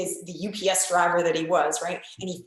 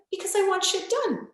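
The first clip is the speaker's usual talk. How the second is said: emphatic; 10 semitones higher than usual. Retold or imitated. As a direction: tell the client straight, forcefully. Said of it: "I'm like".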